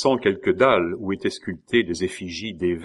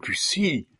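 whispered cry of surprised recognition; startled name, whispered; hushed exclamation; 7 semitones higher than usual. A narrator's reading. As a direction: exclaim it under your breath, in a whisper. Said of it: "à demi-voix s'écria".

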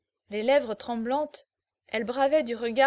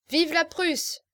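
higher, louder roaring toast; drunken bellow; 5 semitones higher, 4 dB louder, slower than usual. Acted. Drunk officers toasting Prussia, bellowing. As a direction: roar it with the drunken crowd. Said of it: "en vociférant".

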